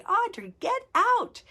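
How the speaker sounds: high urgent yell from afar; calling out warning. Retold or imitated. Kids on shore warning her of a snake, shouted warning.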